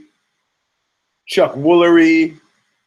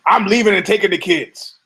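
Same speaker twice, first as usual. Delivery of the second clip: higher, lightly mimicked walkout announcement; fed-up partner; 5 semitones higher than usual. Woman leaving a fighter before his big fight, mock fed-up. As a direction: announce it as an imitated angry partner.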